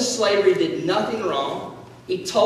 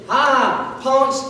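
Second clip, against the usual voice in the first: mock vengeful gloat; 4 semitones higher, much slower than usual. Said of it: "and Joseph said".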